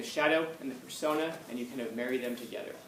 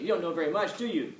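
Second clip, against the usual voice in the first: higher, needling mock interrogation; grief-giving colonel; 4 semitones higher than usual. Colonel giving a private grief, retold needling. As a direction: imitate an officer belittling a private. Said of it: "he's just giving him grief".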